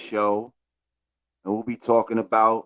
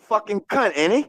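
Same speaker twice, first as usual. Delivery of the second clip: Cockney; 11 semitones higher than usual. Pretend. Joins the Cockney bit.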